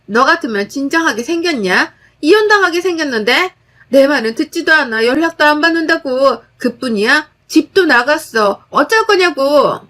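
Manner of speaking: sister-in-law rushing at her, shrieking in a crazed voice. Acted. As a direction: rant like she's lost her mind. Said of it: "광기 어린 목소리로".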